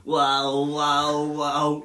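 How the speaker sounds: loud, monotone mimicked robot; a hint of robotic monotone, drawn out; robotic doll voice. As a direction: imitate a toy doll echoing screams. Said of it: "ouves uma voz robótica do outro lado".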